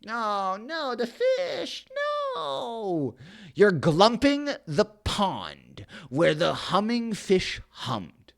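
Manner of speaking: high, crying cry then fading lament; anguished Lorax. Acted. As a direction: wail over the dying fish. Lorax cries for the fish.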